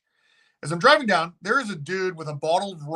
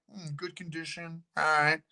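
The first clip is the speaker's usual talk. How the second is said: much softer, mumbled appraisal; quiet musing; 6 dB quieter than usual. Retold or imitated. Visitor eyeing the rectory, quiet musing. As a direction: mutter it to yourself, appraising. Musing while inspecting building.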